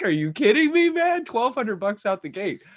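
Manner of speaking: pumped about free money; excited disbelief. Real, not acted. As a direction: yelp it like you can't believe the luck. Excited about stimulus check.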